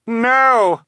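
high, loud cry of horror; piercingly high, drawn-out protest; desperate cry. A narrator's reading. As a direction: cry out to stop him. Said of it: "Violet cried".

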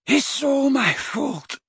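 high, slow, sobbing confession. A narrator's reading. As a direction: break down over the words. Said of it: "he sobbed".

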